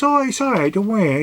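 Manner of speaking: high, sweet reassuring voice; reassuring reply. Retold or imitated. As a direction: soothe her, pitched right up. Brushing off husband's thanks.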